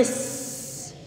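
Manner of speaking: Shh too weak and narrow; a faint failed Shh; wrong shin. Shown as a demonstration. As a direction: Shh barely breathed, air not spread. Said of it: "berarti itu belum dapat tuh".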